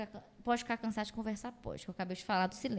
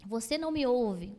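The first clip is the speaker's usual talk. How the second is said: a louder, accusing jab; 6 dB louder than usual. Shown as a demonstration. Partner confronting in a fight, accusing and louder. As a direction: blame the partner outright. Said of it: "Você acha que é brigando".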